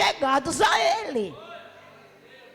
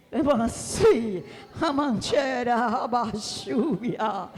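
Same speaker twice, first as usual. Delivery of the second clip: speaking in tongues; 4 semitones lower, much slower than usual. Retold or imitated. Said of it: "eu falava em mistério".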